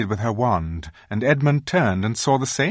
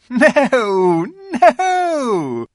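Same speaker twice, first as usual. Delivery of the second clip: laughing refusal; 7 dB louder than usual. A narrator's reading. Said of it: "said the Queen with a laugh".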